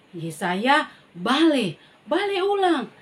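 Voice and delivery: loud, high call to turn back; God calling after the prophet. Acted. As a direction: call him back urgently.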